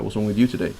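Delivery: asked flatly, blaming the other person; demanding, putting the fault on them; blunt accusing question. Shown as a demonstration. Wife confronting a frowning husband, blunt and accusing. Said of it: "So how is she saying".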